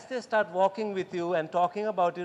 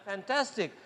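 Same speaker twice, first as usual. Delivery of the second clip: upbeat answer; 4 semitones higher, slower than usual. Shown as a demonstration. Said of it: "How are you?".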